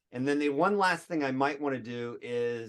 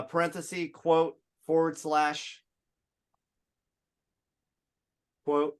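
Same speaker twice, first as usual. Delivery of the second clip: slow, deliberate dictation of symbols; dictating; 2 semitones higher, slower than usual. Shown as a demonstration. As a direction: spell out each symbol slowly. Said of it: "dictating code symbols".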